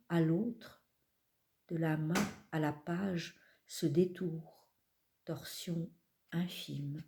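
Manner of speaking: measured, unhurried recital with long pauses; poetry reading. Acted. Poet reading from her collection to an audience, measured recital. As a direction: let each image settle before the next. Reads last poem aloud.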